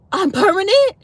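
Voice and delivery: high, rising disbelieving question; surprised disbelief. Retold or imitated. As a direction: ask it as if you can't believe it. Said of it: "I was like".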